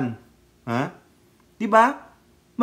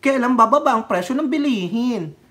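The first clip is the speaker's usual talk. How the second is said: higher-pitched imitation of protesters griping; mock complaining; 4 semitones higher than usual. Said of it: "Tapos sasabihin".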